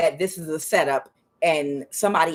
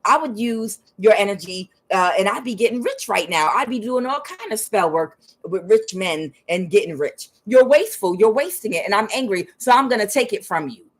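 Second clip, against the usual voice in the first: mock scolding, pitched up; indignant retold rant; scornful envy; 3 semitones higher than usual. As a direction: voice a jealous, accusing quote. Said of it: "And they're like".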